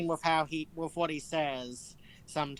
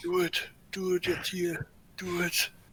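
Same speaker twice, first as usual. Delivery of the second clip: hushed, muttered under-breath whisper. Speaking in character during the scene, whispering under the breath. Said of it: "I whisper under my breath".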